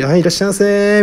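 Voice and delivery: high, chirpy store-clerk welcome; Uniqlo-style greeting. Retold or imitated. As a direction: call out like a chain-store clerk. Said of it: "なんかユニクロみたいにね". (ユニクロ店員風の元気な挨拶)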